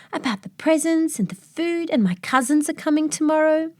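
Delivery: put-on high, eager child's voice; little boy. The boy lists what excites him, in a high child's voice. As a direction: rattle it off like a thrilled kid. Boy's voice answering the elf.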